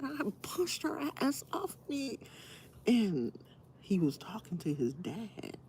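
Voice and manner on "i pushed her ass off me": hushed imitation of husband; whispered quote. Wife retelling husband's reply, whispered. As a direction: whisper his words. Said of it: "He said".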